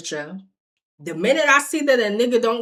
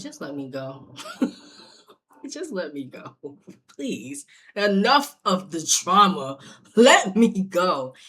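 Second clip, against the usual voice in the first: laughing plea. Retold or imitated. Laughing, pleading in his hug.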